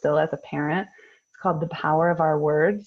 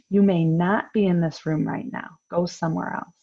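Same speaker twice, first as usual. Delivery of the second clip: calm and firm. Shown as a demonstration. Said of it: "we can stay calm and we can say".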